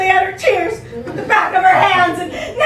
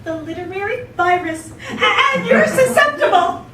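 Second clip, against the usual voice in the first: higher, teary hammed-up whimper; mock tearful; 4 semitones higher than usual. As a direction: play it as a tragic confession. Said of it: "She burst into tears again".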